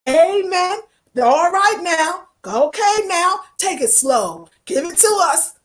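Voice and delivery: drawn-out call-and-response church cheering; church congregation. Retold or imitated. Congregation urging on a yelling preacher, fervent church responses. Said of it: "They be like".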